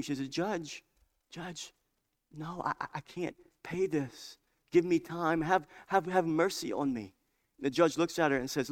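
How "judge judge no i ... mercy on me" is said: pleading. Retold or imitated. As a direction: beg the judge for time. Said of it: "And so she's pleading".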